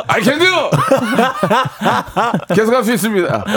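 high-pitched, laughing declaration; cheeky mock-bold outburst; brazen laughing boast. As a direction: burst out defiantly through laughter. Comic answer as caught boyfriend.

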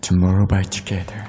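slow catchphrase dropping low; low echo voice. Shown as a demonstration. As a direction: sink the voice, draw it out. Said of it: "잘 내려간다". (진지하게 낮게 내려가는 목소리)

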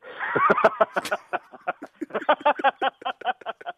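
high scheming cartoon villain cackle; villain laugh. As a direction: cackle over your evil plan. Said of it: "악당이 그럴싸한 나쁜 계획을 세우면서 웃는 목소리".

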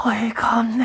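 숨소리로 속삭이듯 대사; 어이없다는 듯 속삭여; 속삭이는 영화 대사. Retold or imitated. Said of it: "한번 읊어봤습니다". (속삭이는 영화 대사 흉내)

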